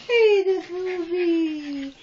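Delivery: slow, high laughing voice. Real, not acted. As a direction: laugh the words out. Laughing at dog trick.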